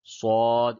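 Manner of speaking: صاد thick and full, without whistle; full, heavy s. Shown as a demonstration. Teacher correcting learners on saad, صاد heavy and full. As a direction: fill the mouth on صاد. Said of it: "اس کو پڑ پڑھتے ہیں".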